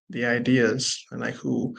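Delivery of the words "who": ordinary talk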